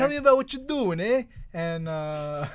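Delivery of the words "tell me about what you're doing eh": hammed-up Canadian accent, much higher and louder. Host imitating Trudeau chatting with Alpha Flight, hammed-up Canadian accent. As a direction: play up a jokey Canadian accent, open on a big eh. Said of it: "That's my Canadian accent".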